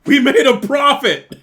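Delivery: loud, high, drawn-out exclamation; gloating cheer. Acted. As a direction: crow slowly and loudly over the win. Guards gloat over the sale.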